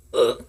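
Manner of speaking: short, low grunt of exasperation; low "ugh" of frustration; frustrated ugh. Retold or imitated. Voices her own frustration.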